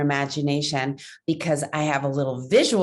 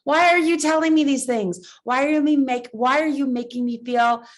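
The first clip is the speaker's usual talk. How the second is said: higher, louder indignant questions; indignant demand; 5 semitones higher, 3 dB louder than usual. Acted. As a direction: demand answers from the inner critic. Confronting the critic puppet.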